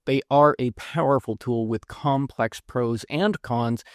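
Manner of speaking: talking around a mouth guard; mouth guard lisp. Real, not acted. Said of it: "read the whole thing with the mouth guard lisp".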